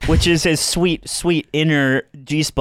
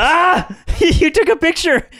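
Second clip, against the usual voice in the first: surprised; 14 semitones higher than usual. Real, not acted. Sees photo of shiny head.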